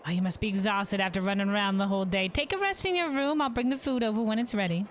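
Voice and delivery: innkeeper voice. Acted. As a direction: greet the guest like a caring innkeeper. Innkeeper NPC lines.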